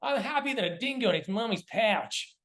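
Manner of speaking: put-on high, excitable Australian accent; Steve Irwin. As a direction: do a broad Aussie wildlife-host impression. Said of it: "I used to do Steve Irwin".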